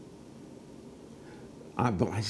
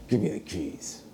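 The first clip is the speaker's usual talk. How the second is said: retold anger; 4 dB quieter than usual. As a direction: demand it with restrained, imitated irritation. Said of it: "He's mad".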